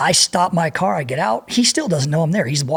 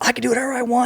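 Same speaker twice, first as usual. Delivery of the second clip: put-on high scream, blurted out repeatedly; 7 semitones higher than usual. Retelling what a bleeding kid kept shouting: imitating someone screaming. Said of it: "He's just screaming this over and over".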